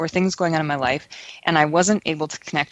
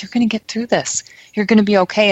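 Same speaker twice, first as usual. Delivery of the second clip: higher-pitched, insistent encouragement; encouraging reassurance; 4 semitones higher, 5 dB louder, faster than usual. Retold or imitated. Spirit guide to her in a tough situation, encouraging reassurance. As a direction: quote a friend cheering you through.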